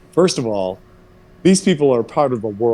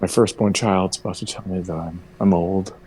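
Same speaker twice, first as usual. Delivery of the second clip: imitating dismayed mom; 5 semitones lower, 4 dB quieter than usual. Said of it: "that look of like".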